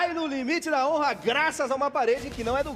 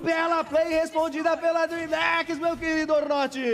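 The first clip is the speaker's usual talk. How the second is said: excited play-by-play; 5 semitones higher than usual. Real, not acted. Play-by-play climax.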